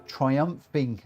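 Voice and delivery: "triumphing" drawn out slowly, syllable by syllable; careful self-correction. Real, not acted. Streamer fixes a slip congratulating a racer, careful self-correction. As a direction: say "triumphing" slowly as TRY-umf-ing. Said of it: "not trumping".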